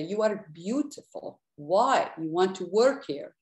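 a hint of an Italian accent, questioning; lightly put-on Italian accent. Poet quotes Paolo urging her on, light Italian accent. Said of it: "my attempt at an Italian accent".

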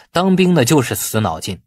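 plain reading voice

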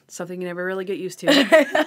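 quoting Randy, losing it laughing; laughing through the line. Retold or imitated. Retelling Randy's line, cracking up. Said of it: "And he's like".

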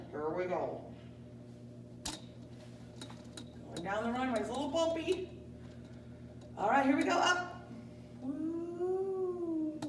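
a lightly voiced pretend airline captain; Captain Pigeon. Captain Pigeon greets the passengers, lightly voiced pilot. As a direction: play the pilot making his cabin announcement. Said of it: "Captain Pigeon is going to take over now".

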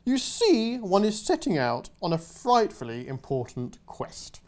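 lightly voiced plummy knight; a hint of a pompous knight; posh knight. Knight explaining his quest, pompous.

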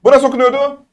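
high, sing-out quiz question; quizzing. Shown as a demonstration. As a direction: pitch it right up to test the class. Teacher quizzing on the letters.

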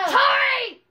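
loud high call across the room. Pretend. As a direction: yell her name to summon her. Calling out to leave.

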